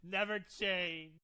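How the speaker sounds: host howling with laughter at Stephen A; loud laughing delight. Real, not acted. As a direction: cackle it out with glee.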